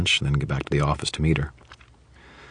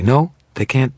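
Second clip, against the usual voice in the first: much higher, hurried backpedal; flustered woman; 5 semitones higher than usual. Acted. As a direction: catch yourself mid-sentence.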